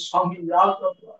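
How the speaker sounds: slow, drawn-out plea, building in force; repeated anguished appeal, swelling as it goes; tearful lament. Acted. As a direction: cry out to God in acted grief. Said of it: "ಕಣ್ಣೀರಿಡ್ತಾ ಇದ್ದಾನೆ".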